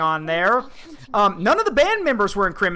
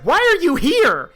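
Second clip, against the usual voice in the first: startled shout; 9 semitones higher, 6 dB louder than usual. Retold or imitated. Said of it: "He's like".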